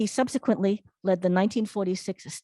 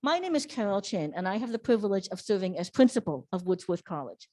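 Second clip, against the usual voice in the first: muffled behind a face mask; speaking through a mask. Real, not acted. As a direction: talk through a cloth mask. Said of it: "sorry, I'm speaking through the mask".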